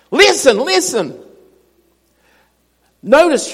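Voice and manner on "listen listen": slow repeat. Shown as a demonstration. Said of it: "You ever heard that before?".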